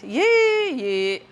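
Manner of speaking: a high startled yee; shocked yee. Retold or imitated. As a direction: react to trouble on TV. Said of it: "you see a conflict".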